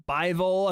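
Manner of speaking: "Bivol" said as BY-vol; first syllable of "Bivol" rhymes with eye; alternative pronunciation. Shown as a demonstration. Commentator listing ways to say "Bivol", as BY-vol. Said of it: "twenty-five different ways to pronounce Bivol".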